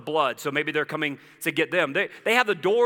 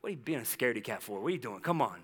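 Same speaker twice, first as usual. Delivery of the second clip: mock chiding dad; 4 semitones lower, 9 dB quieter, faster than usual. Dad chiding his frightened kids.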